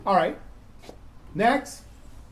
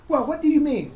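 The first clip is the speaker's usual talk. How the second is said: mock puzzled student; 9 semitones higher, 5 dB louder than usual. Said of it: "when you come to me and say".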